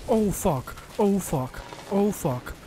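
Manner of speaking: panicked high shouting; shrieking jackpot winner. Real, not acted. Panicked reaction to jump scare.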